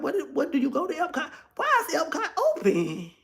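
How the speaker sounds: laughing it out in disbelief; high, amused, can't believe it; real laugh breaking into the question. Real, not acted. Incredulous rant about Epcot.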